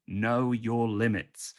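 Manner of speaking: billboard slogan read. Acted. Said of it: "it said in big letters".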